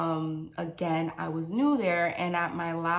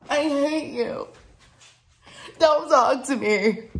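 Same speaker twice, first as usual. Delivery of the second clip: mock tantrum; 6 semitones higher, 7 dB louder than usual. Storyteller telling off judging viewers, mock tantrum. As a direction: play a wounded, hammed-up fit.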